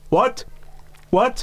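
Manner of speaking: mock Stone Cold chant; Steve Austin what. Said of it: "Mid-zweitausender Steve Austin".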